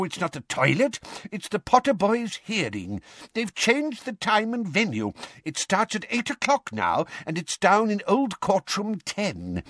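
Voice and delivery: put-on high, flustered old man's voice; a nervous old clerk babbling fast; timid old wizard. A narrator's reading. Perkins fretting to Arthur about the urgent message, high and flustered.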